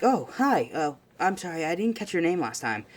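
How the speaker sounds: lightly acted sheepish hello; awkward greeting. Izuku apologizing to a classmate, awkward.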